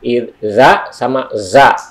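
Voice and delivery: tongue-tip "Iza" against "za" with a puff of air; contrasting za sounds. Shown as a demonstration. Teacher contrasting the letters, slow stressed "Iza sama za". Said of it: "agak keluar angin".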